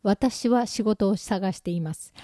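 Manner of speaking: slow, careful set phrase; deliberate learner's recital; rehearsed phrase. Acted. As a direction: recite it slowly like your only sentence. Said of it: "発する言葉がもうこれ一つだけなの".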